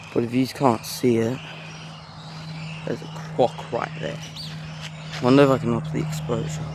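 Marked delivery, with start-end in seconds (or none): 2.8-4.2 hushed whisper so the croc isn't spooked. Real, not acted. Quietly pointing out a croc.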